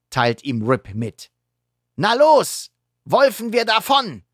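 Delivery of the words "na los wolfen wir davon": gleeful getaway call. Acted. Gang leader urging escape.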